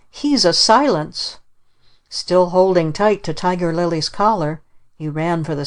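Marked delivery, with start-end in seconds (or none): 0.1-1.4 put-on slower, higher child's yell; mild mock scream. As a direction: drag out the accusation, understated. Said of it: "he screamed".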